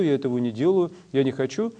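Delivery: usual speaking voice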